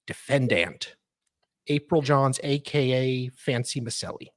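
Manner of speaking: mock-grand legal reading; dramatic legal reading. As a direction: read it like a solemn petition. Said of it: "our dramatic reader".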